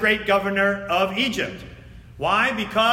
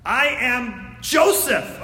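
Joseph revealing himself; 4 semitones higher, much slower than usual. Acted. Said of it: "Joseph said to his brothers".

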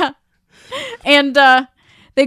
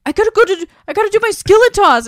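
eager exit line; 9 semitones higher, 5 dB louder, faster than usual. Retold or imitated. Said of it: "And Kelly's like".

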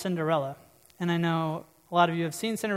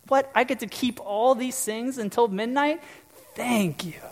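much higher, gushing princess voice; delighted Cinderella; 5 semitones higher than usual. Retold or imitated. Cinderella thanking her fairy godmother, high delighted voice. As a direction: Cinderella thrilled with her gift. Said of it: "She's so joyful and happy".

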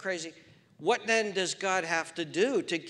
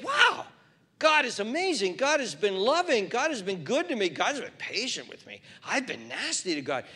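amazed new believer; 5 semitones higher than usual. Acted.

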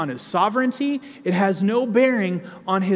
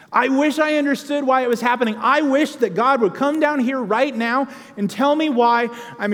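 higher, louder anguished complaint that settles toward hope; aching lament rising high and loud at first; Job lamenting; 5 semitones higher, 4 dB louder than usual. Acted. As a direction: cry it out like a worn-out sufferer, then steady yourself. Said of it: "He sits there and he goes".

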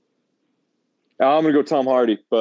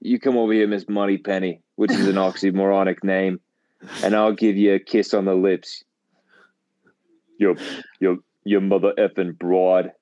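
macho seducer. Pretend. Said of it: "way too much of Andrew Tate".

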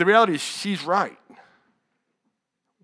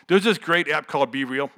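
mock enthusiasm, hit a touch louder; sarcastic; 5 dB louder than usual. Real, not acted. Preacher mocking a social app to the congregation, sarcastic. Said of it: "I say that's totally sarcastic".

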